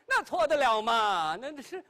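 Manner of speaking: wife pressing her husband to acknowledge their son, high and urgent; anxious old lady. Acted. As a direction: insist urgently that he must accept the son. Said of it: "老太太都急了".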